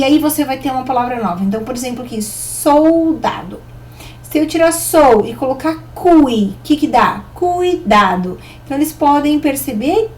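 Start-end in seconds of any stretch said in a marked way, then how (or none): 2.2-3.6 slow, drawn-out "soldado"; syllable by syllable. Shown as a demonstration. Teacher showing children a word to change, syllable by syllable. 7.3-8.4 slow, drawn-out "Cuidado"; syllable by syllable. Shown as a demonstration. Teacher revealing the word made with a new syllable, syllable by syllable.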